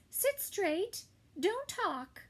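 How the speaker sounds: teacher ordering the class; stern teacher. Acted. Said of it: "telling the class".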